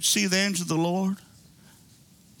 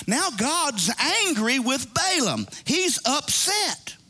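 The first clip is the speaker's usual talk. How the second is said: drawn-out, higher-pitched retold realization; slow, emphatic working-it-out; 5 semitones higher, slower than usual. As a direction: stretch each word as it dawns on you. Rereads slowly, acting out his realization.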